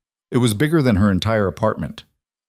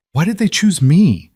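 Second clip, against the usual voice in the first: rough, strained and louder; 9 semitones higher, 5 dB louder than usual. A narrator's reading. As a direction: push it out, voice roughened. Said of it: "Her voice was rough".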